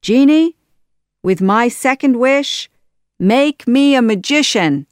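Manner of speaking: high, loud, forceful wish; imperious command. A narrator's reading. Villain ordering the genie, loud imperious command. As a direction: demand it as the master.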